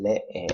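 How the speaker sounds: lee slowed, weight on the first E; stress on first E. Shown as a demonstration. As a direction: lean on LE in lee. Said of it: "on the first E".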